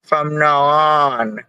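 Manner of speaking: lightly put-on Jamaican accent; a playful hint of Jamaican accent; slight Jamaican accent. Shown as a demonstration. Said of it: "I change my accent like this".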